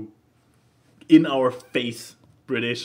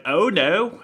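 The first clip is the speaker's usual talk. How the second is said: put-on Irish accent; 5 semitones higher, 3 dB louder than usual. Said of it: "I can't do an Irish accent".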